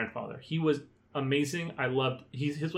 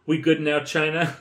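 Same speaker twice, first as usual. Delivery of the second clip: north korean newsreader. Retold or imitated. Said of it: "I'm gonna read it".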